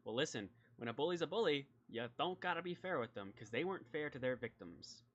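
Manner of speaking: lightly voiced lawman arguing back; folksy sheriff, indignant. Sheriff defending his treatment of bullies, mildly indignant.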